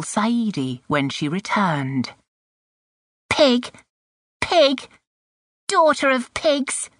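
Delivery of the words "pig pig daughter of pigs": put-on high, angry name-calling from a little girl; angry muttered insult. A narrator's reading. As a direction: spit out the insults, high and punchy. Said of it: "grinding her teeth and saying this".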